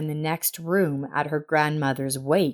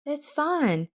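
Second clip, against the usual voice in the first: smiling calm; 9 semitones higher, 4 dB quieter than usual. A narrator's reading. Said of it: "Elsa smiled".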